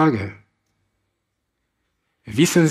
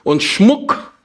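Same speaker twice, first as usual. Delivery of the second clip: higher, rasped magpie croak; 5 semitones higher than usual. Acted. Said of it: "krächzte die Elster".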